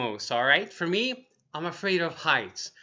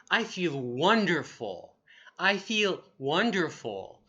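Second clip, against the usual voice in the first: slow model phrase. Shown as a demonstration. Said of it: "I want you to repeat".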